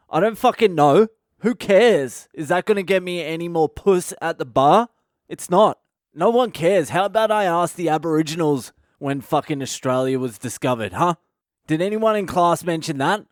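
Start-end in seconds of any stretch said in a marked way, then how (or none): 0.1-9.6 mock classroom outburst; student outburst. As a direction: blurt it out at the whole class.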